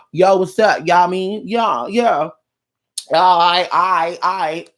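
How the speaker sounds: lightly voiced bro greetings; mock dude bro. To the grown man still talking like a teenager, a light mock bro voice. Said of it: "And you still".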